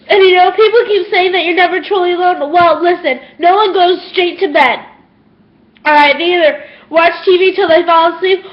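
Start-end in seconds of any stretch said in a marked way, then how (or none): 0.1-4.8 real tears breaking through the words; crying. Real, not acted. Telling viewers nobody is truly alone, crying. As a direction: speak while actually crying, pushing the line out. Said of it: "I am about to cry".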